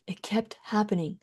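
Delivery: soft, unvoiced admission; whispered resignation. Real, not acted. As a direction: let it fall to a whisper. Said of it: "whispered resignation".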